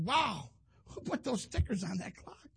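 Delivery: lightly voiced father, slow and puzzled; a hint of the dad asking slowly who did it; dad's voice. Retelling his dad asking who stuck stickers on the clock, slow and puzzled. Father questioning son at work.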